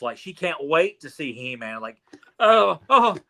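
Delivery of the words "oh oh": put-on high, loud gasping kid; mock-thrilled little boy; a kid bursting with excitement; excited kid. Kid voiced excitedly in retelling.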